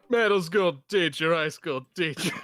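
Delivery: mock imitation of Bird's Hugo voice; lightly imitating a friend's character voice. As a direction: parody how Bird reads Hugo. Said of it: "this is how Bird would read Hugo".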